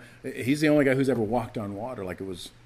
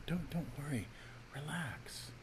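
hushed, soothing whisper to calm someone; soft whispered reassurance; 4 semitones higher, 14 dB quieter than usual. Retold or imitated. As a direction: breathe out the relax softly. Soothing a worried partner.

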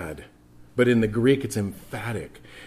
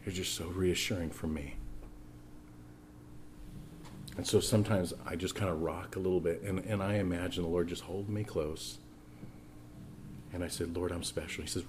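tender hush; 3 semitones lower, 11 dB quieter than usual. Real, not acted. Tender prayer moment, voice dropped.

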